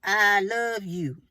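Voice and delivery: slow, expressive I love you; an expressive, drawn-out I love you; with expression. Shown as a demonstration. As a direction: lean into each word of it. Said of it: "say it with expression".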